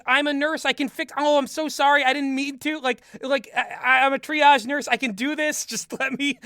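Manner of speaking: a hint of a panicked nurse; flustered apology. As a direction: babble sorry while rushing to help. Nurse apologizes after hitting him.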